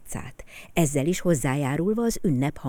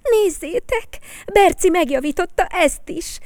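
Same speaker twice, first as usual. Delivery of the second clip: higher, louder, delighted call; excited child; 14 semitones higher, 8 dB louder than usual. Acted. A boy calling the others to look, higher and excited. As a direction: show everyone, thrilled. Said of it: "kiáltotta boldogan".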